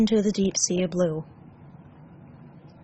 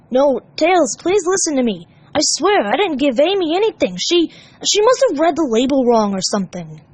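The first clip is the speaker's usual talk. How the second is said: pleading; 6 semitones higher, 4 dB louder than usual. Acted. Sonic pleading.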